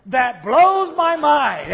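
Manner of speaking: slow, drawn-out amazement; like it blows your mind. Shown as a demonstration. Pastor leads the congregation, slow and amazed. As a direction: let it sound mind-blown, slowly. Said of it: "Say it like it blows your mind".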